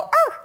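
sharp high yip, like a prairie dog; prairie dog bark. Retold or imitated. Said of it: "a very poor imitation of prairie dog barks".

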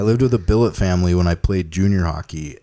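Canadian accent. Shown as a demonstration. Host reads a Canadian listener email in a mock Canadian accent. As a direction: read it like a Canadian hockey guy, half-hearted. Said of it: "should I read in a Canadian accent?".

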